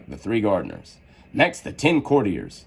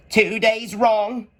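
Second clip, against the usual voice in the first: slow, high, sighed; sighing Hatter; 12 semitones higher, much slower than usual. A narrator's reading. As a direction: sigh it out slowly as the Hatter. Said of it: "sighed the Hatter".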